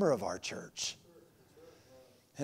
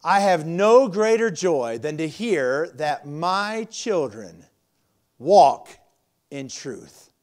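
slow, weighty reading of the verse; slow scripture reading; 4 dB louder, much slower than usual. Acted. Pastor reading scripture to the congregation, slow and weighty. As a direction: read the verse slowly so they mark it. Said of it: "underline the whole verse".

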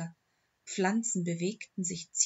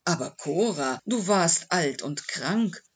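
mildly pleading, louder protest; defensive protest; 7 dB louder than usual. A narrator's reading. Owner justifying himself to his dead dog, defensive protest.

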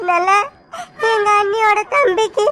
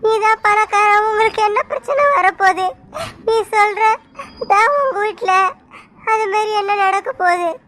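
crying. Acted. Sandhya crying.

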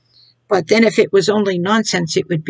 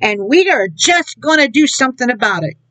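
higher, whiny mock gossip; mock gossiping churchgoer; 5 semitones higher than usual. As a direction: lightly imitate a wounded gossip, pitched up. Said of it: "you sit down and you gossip and you backbite".

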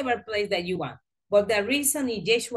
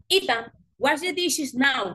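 firm command; 4 semitones higher than usual. Shown as a demonstration. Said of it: "Example, look at that".

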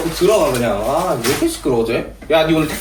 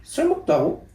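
높고 조심스럽게 되묻기; 얌전한 목소리로 살짝 놀란 듯; 내숭 전화 목소리; 3 dB quieter, slower than usual. Real, not acted. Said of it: "누나 목소리 왜 그래?". (오빠 앞에서 내숭 떨며 높은 톤으로)

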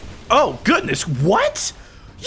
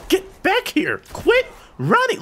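much higher, calling after him; high yell; 13 semitones higher, slower than usual. Real, not acted. Chasing a fleeing enemy.

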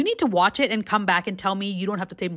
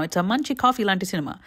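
put-on Telugu accent; faster than usual. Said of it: "I don't know why I did the accent".

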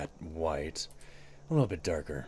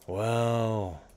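Joker voice; 6 semitones higher, 6 dB louder than usual. Retold or imitated. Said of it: "I could ask any Joker".

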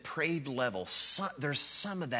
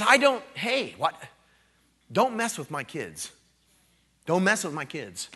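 firm, urgent warning; urgent protective dad; 4 semitones higher, 5 dB louder than usual. Pretend. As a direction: warn them off your children. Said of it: "It's that kind of urgency".

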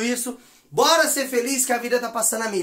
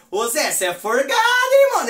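indignant; 5 semitones higher, 4 dB louder than usual. Retold or imitated. Até eu tava indignado.

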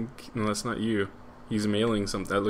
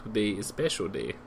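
lightly put-on Spanish accent, hammed-up; mock Spanish accent. Reading an NPC's message in a playful mock Spanish accent. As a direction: read the game line in a mock Spanish accent. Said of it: "That's my best Spanish".

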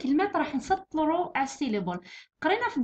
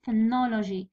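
Phonology with 'no' stressed; 3 semitones lower, much slower than usual. Shown as a demonstration. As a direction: lean lightly on 'no' in Phonology. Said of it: "جي في النو".

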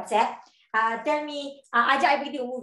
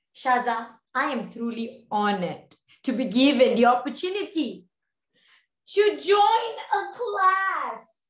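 formal acceptance; slower than usual. Shown as a demonstration. Speaking to Shaza about a class, exaggeratedly formal. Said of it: "lebih formal".

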